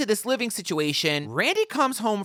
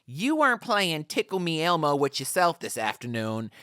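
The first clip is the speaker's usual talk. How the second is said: seething husband; 4 semitones lower, 3 dB quieter than usual. Retold or imitated. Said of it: "he's like".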